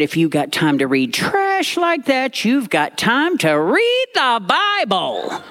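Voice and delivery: slow, high, preachy grandmother drawing out the Bible line; granny lecturing like she's in church; Granny's scolding voice. Retold or imitated. Granny scolding her grandson on the bus, stern and preachy. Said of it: "and said".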